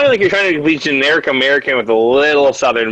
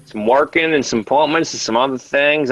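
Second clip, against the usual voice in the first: mock Southern US. Mimics friend's American accent attempt.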